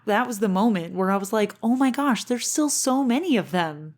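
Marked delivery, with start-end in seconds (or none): 1.6-3.9 higher, dismayed oh my gosh; a touch of mock alarm. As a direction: let the shock at the army rise up. Retelling her dismay at the army.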